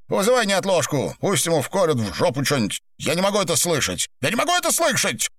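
high, fast, rising exasperation; exasperated outburst. A narrator's reading. Виноградов snaps at the secretary, fast and exasperated.

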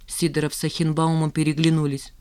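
ordinary delivery

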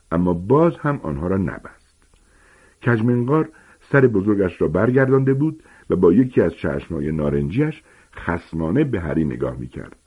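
ordinary delivery

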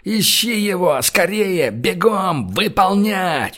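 commanding shout. A narrator's reading. Командный крик. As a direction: Gosh drives Bolshoy to move, shouting orders.

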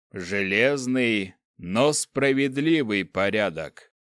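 slow, cold dark lord voice; lightly voiced menacing ruler; menacing overlord. Overlord's past proclamation.

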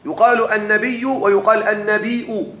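النبي with ي, then النبيء ending in a glottal hamza; two readings. Shown as a demonstration. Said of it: "فيها لغتان". (النبي بالياء ثم النبيء بالهمزة)

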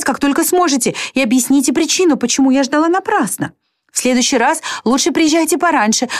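a hint of Marianne's pleading; Marianne's letter voiced. (немного высокий, нетерпеливый голос Марианны)

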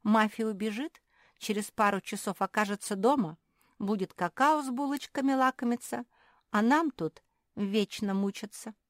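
high, loud, plaintive; acted wail of self-pity; tearful grievance. A narrator's reading. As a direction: lament being left behind. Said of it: "заплакала Наретта".

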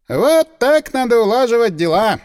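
loud triumphant exclaim. A narrator's reading. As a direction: crow with satisfaction. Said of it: "воскликнул адвокат".

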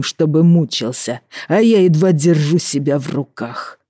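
put-on slow, menacing drunken rage; seething anger. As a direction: spit out the hatred, barely held in. Drunk husband rages.

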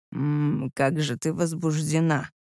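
low, soft man's whisper. A narrator's reading. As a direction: breathe it low and softly. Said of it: "прошептал он".

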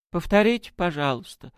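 high-voiced, sheepish request; embarrassed. A narrator's reading. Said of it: "смущённо сказал он". (смущённо, высоким голосом)

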